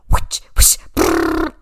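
loud airy whooshes, then a high rolled brrr; toilet flush impression. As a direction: imitate a mouse swirling down the toilet. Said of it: "impression of a mouse flushing down the toilet".

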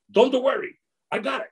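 lightly voiced burly cameraman; reassuring friend. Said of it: "He goes".

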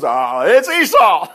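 slow, chuckling through the lie; laughing lie. Acted. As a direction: laugh while pretending to be Esau. Jacob lies to blind father.

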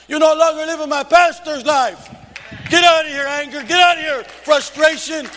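fiery Holy Ghost preacher ordering pain away; preaching rebuke. Acted. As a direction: cast the trouble out with full force. Preaching rebuke at full force.

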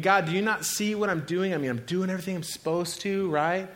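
acted exasperated appeal; angry at God. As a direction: protest to God with a touch of anger. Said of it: "keep ourselves from getting angry at God".

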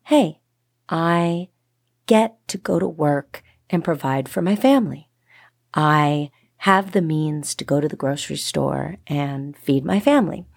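bright opening "Hey", then thankful and positive; grateful upbeat. Shown as a demonstration. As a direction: sound glad to have the chance. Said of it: "flip it, you know, and say".

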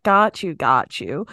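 put-on catchphrase with a light American accent. Co-host approving merch slogan, American accent. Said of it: "thing we always say in an American accent".

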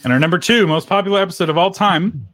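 talking through a mouthful of ice cream; mouth full. Real, not acted. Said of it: "so I've got ice cream in my mouth".

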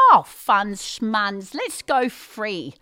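slow, airy brush-off; breezy dismissal. Retold or imitated. Wife brushing off her husband's money worry, slow and breezy. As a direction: wave away his worry.

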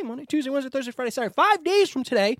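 talking around an ice cube; ice in mouth. Real, not acted. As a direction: speak with ice in your mouth. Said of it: "I got an ice cube in my mouth".

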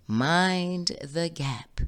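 slow, drawn-out English announcer voice; mild imitation of a polite English accent; lovely English accent. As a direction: mind the gap like a London Tube recording. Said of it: "in a lovely English accent".

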